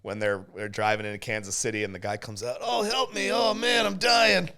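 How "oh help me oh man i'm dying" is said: high, wavering fake cries for help; fluttering cries for help. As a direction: whimper for help like a faker. Stranger faking injury on road.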